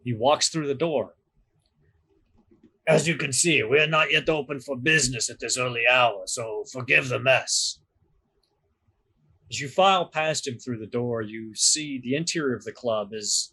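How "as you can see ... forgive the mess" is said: put-on light Severosi accent, polite host; a touch of Severosi accent, apologetic. Doorman apologising for the mess in a light Severosi accent. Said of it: "in a thick Severosi accent".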